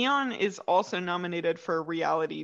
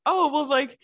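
higher-pitched, lightly mocking aside; imitated catty aside; 7 semitones higher, 4 dB louder than usual. Friend imagines a reality contestant's aside, lightly snide. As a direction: toss it off as a gossipy aside, pitched up. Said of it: "her asides, I guess, where she's like".

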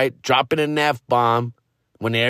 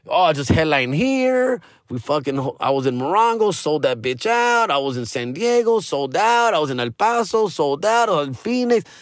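lightly voiced boastful comic; mock bragging. Other comics bragging in the green room, mock boastful. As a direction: brag a little, half-mocking. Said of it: "we're bragging, we're flexing".

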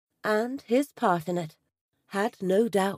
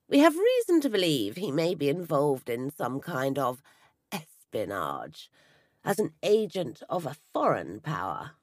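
low sergeant voice; 6 semitones lower than usual. A narrator's reading.

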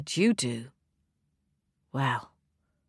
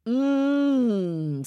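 wicked stepmother; 3 semitones higher than usual. A narrator's reading. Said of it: "said the stepmother".

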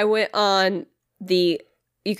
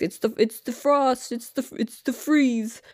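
spooky voice; 5 semitones higher, slower than usual. Retold or imitated. Mock ominous voice for the cold.

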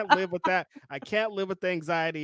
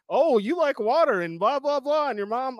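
a high, chattering mock woman's voice; mocking an astrology woman; 7 semitones higher than usual. Man mimics a woman lecturing him about Pisces, high and mocking. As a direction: rattle off her claims in a high singsong voice. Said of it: "I'm not in the group".

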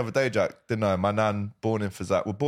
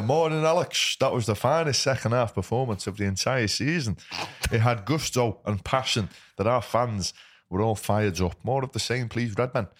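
Frank Carlisle impression. Host reading a viewer's comment aloud, lightly impersonating the fan. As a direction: read the fan's message in a light mock impression of him. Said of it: "That was my Frank Carlisle accent, by the way, an impersonation".

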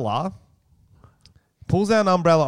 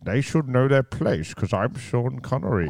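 Sean Connery. Pretend. S0 voicing Connery's sexism.

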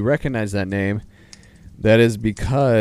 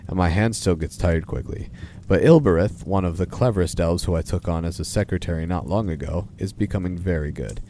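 lively storybook reading of a letter; measured, expressive read-aloud. Acted. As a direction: read it out as Father Christmas writing to children. Reads Father Christmas's letter aloud.

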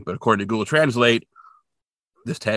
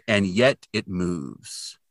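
slow translation; 3 semitones lower, 3 dB quieter, much slower than usual. Shown as a demonstration. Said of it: "And it means".

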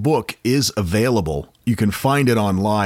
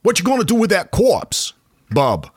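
a lightly voiced Maine local, pitched up; Maine accent; 10 semitones higher than usual. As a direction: Aldini asks for the corpse in a mock Maine voice. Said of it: "So Aldini went to Piazza Maggiore and said".

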